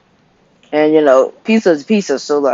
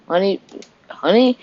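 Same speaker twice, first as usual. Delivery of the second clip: calling out; 7 semitones higher than usual. Retold or imitated. Husband calling louder.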